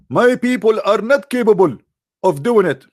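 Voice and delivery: hammed-up exasperated plea; pleading prophet. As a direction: beg the angel, exasperated. Muhammad voiced pleading to angel.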